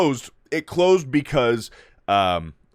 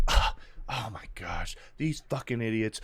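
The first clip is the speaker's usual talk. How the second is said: mock exasperation; 2 semitones lower, 9 dB quieter than usual. Voices Leia fed up with adults.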